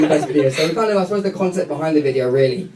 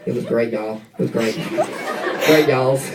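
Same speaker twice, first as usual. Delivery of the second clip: put-on Southern American accent; 2 semitones lower than usual. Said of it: "can you do an American accent".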